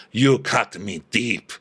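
milk the hurt like a telenovela; telenovela drama. Retold or imitated. Diana confronting Sutton, melodramatic hurt. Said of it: "goes for the full telenovela confrontation".

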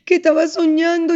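high childlike voice, imitating her daughter; little girl voice. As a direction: speak like a small child just woken. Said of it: "Me dice". (voz de niña pequeña, aguda)

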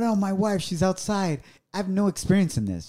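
high, anxious reenacted plea; flustered. Husband telling nurse about wife outside, flustered. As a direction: play a helpless first-timer explaining himself. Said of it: "I was so nervous".

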